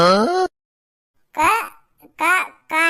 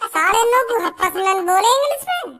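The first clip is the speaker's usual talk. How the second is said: angry scolding; 4 semitones higher than usual. Acted. Friend scolds over English time.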